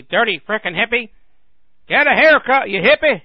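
loud, high jeering yell; mock angry heckling. People today yelling at Jesus, hammed-up angry shout. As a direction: yell it like an outraged bystander.

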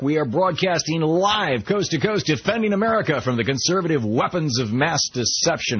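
booming radio announcer pitch; old sci-fi announcer. Acted. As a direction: sell it like a grand broadcast intro. Host reads station intro.

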